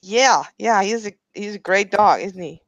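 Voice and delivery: attempted Scandinavian accent. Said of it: "twist her voice".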